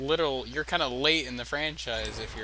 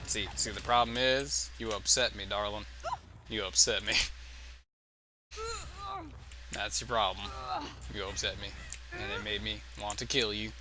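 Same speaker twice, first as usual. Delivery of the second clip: country voice; 3 semitones lower than usual. Pretend. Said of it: "talking with a country voice now".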